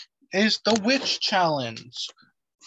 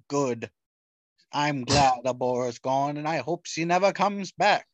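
put-on mocking voice; 3 semitones lower than usual. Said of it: "what is this voice that you're doing".

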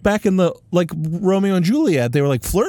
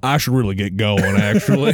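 put-on cowboy accent; 6 semitones lower than usual. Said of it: "My cowboy voice".

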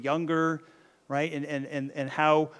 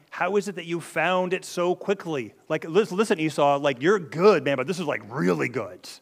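amazed father; 2 semitones higher, 5 dB louder than usual. Retold or imitated. Isaac to his son about the quick hunt, amazed. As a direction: marvel at your son's feat, punching the praise.

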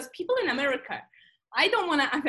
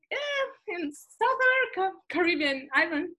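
1 unsure; 6 semitones higher than usual. Retold or imitated. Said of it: "And I was like".

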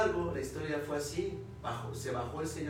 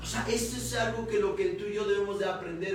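raised, emphatic sermon delivery; preaching; 4 semitones higher, 4 dB louder than usual. Real, not acted. Preacher testifying to the congregation about obeying God, emphatic preaching.

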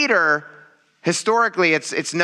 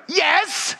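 mock insistent yes; 13 semitones higher than usual. Lying answer to wife.

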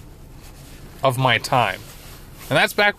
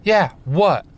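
Annie's voice; 5 semitones higher than usual. Retold or imitated. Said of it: "She turns around".

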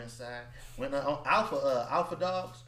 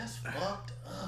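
high slow mock disbelief; 6 semitones higher, 4 dB quieter, much slower than usual. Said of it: "I'm like".

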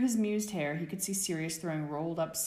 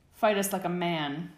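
much louder challenging demand; 3 semitones higher, 8 dB louder than usual. Acted. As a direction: dare him to fight, loudly. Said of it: "James demanded".

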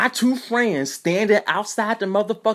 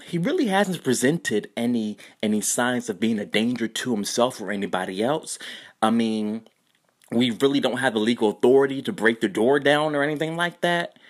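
female cop; 6 semitones lower, 3 dB quieter than usual. Retold or imitated. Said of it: "I hear a motherfucking female cop".

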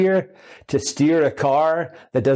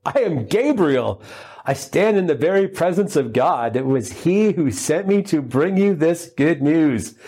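solemn angel; 3 semitones higher than usual. Acted. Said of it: "And the angel said".

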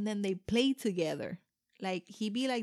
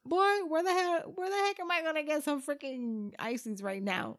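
exasperated mock yell; 7 semitones higher than usual. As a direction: blow up at the kids, half joking. Mom exasperated at kids.

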